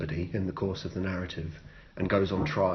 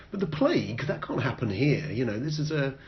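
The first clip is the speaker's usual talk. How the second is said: higher, lightly voiced complacent residents; naive townsfolk; 5 semitones higher than usual. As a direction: brush it off airily. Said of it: "residents of the town are like".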